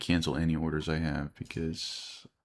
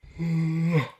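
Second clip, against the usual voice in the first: yawn; 12 semitones higher, 5 dB louder than usual. Real, not acted. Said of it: "so I'm yawning".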